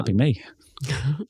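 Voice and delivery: voiceless joking whisper, as a sly aside. Acted. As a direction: breathe it as a secret plan. Joking aside about stealing her name.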